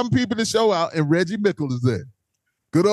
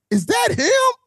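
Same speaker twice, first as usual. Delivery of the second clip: retold disbelief; slower than usual. Retold disbelief on seeing friend.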